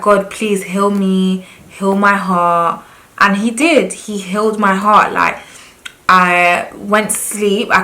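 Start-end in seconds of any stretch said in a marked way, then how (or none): 0.0-2.8 pleading prayer. Retold or imitated. Praying alone in the dark, slow and pleading. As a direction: beg God gently. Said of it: "I was just like".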